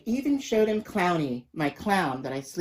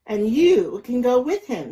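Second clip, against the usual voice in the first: sharp order; 6 semitones higher, 8 dB louder than usual. A narrator's reading. Mother snapping at daughter.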